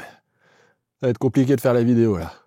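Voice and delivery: speaking between hiccups; hiccup-broken words. Real, not acted. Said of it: "j'ai le hoquet".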